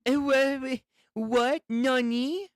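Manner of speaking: high, stammering disbelief; high-voiced stunned double take; startled. Acting a character's startled reaction.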